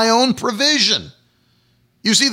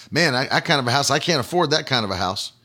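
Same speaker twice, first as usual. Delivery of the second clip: doubting flesh talk; 5 semitones lower, 3 dB quieter, faster than usual. Retold or imitated. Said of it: "if I was gonna speak in the flesh".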